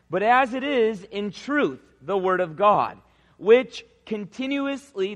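slow, deliberate Bible reading from the pulpit; scripture reading. Acted. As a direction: read the verse out solemnly, word by word. Reads scripture aloud.

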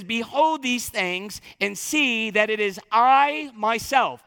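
Jesus insisting it is really him; emphatic. Acted. Preacher voicing Jesus to his frightened disciples, slow emphatic stress. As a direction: stress on I and myself, slow and firm. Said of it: "It's emphatic".

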